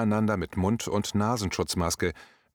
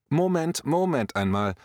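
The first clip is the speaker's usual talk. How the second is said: a hint of a coach's call to order; old coach manner; 5 semitones higher than usual. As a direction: cut in like a coach quieting the team. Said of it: "in typischer alter Trainermanier".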